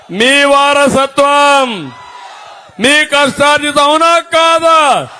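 slow, rising shouted appeal; rousing shout. Real, not acted. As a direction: build it up and ask the crowd. Rousing the crowd. (నెమ్మదిగా పెరుగుతున్న ఉద్వేగ పిలుపు)

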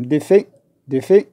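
short closed é at the end of "دي في". Shown as a demonstration. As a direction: say "دي في" with the air held inside the mouth. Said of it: "تيدخل داخل الفم".

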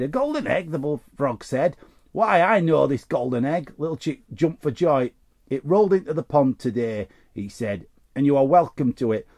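lively read-aloud storytelling; story reading. Acted. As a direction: read it like a bedtime story to kids. Reads a children's story card.

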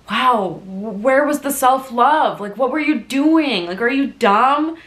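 high, slow, incredulous scolding; hammed-up exasperated self-lecture; retold self-anger. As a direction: drag out each question in disbelief at yourself. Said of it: "I would be angry".

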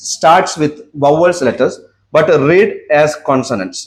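very slow, word by word; slow dictation. Shown as a demonstration. Teacher dictates the rule to students, very slowly. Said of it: "teacher slow dictation".

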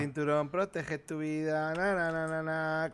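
drawn-out mock campaign slogan, then a dismissive na na na; mocking singsong slogan. Mocking his friend's road-safety preaching with a slow, teasing slogan.

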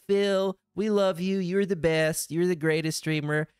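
mock adoring viewer gushing; gushing fan voice. Quoted fans praising Phil.

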